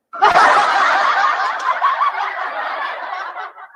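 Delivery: long high burst of laughter. Real, not acted. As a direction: crack up at her own joke. Laughs at the llama image.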